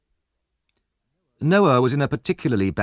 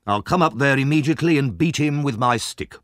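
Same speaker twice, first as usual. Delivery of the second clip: mildly angry threat, pitched up; understated outraged authority; shocked anger; 4 semitones higher than usual. Acted. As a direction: announce a beating with indignation. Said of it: "was shocked and angry".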